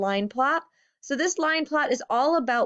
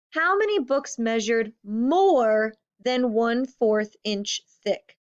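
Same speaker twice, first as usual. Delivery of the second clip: "more" leaned on, slow and deliberate; emphasis on more; slower than usual. Shown as a demonstration. Teacher reading the question to fifth graders, stressing "more". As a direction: stress the word "more" so kids hear it. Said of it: "you might have heard me put a lot of emphasis on that word more".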